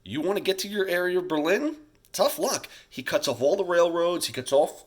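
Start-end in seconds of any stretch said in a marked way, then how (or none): 0.0-2.7 higher, louder mocking taunt; teacher hamming up a smug Stalin. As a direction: play Stalin gloating over Berlin. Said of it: "So what Stalin decides is".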